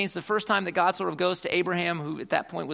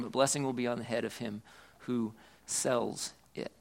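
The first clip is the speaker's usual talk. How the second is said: repeated scripture reading. Acted. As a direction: lean into the words a second time. Reads the verse again.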